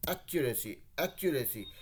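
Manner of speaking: एक्यूरेसी with the pitch dipping on the final "सी"; dip on the end. Shown as a demonstration. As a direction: let the voice drop on the last syllable of एक्यूरेसी. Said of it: "सी पे एक dip है". (एक्यूरेसी बोलते समय आखिरी "सी" पर आवाज़ नीचे गिराइए)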